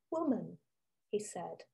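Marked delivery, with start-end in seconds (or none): 0.1-0.6 gentle voice. Acted. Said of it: "his voice was gentle".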